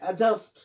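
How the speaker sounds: एडजस्ट with no D, "a-just"; silent D. Shown as a demonstration. Teacher models the word, D silent in एडजस्ट. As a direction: say एडजस्ट, dropping the D. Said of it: "इसमें डी silent रहता है".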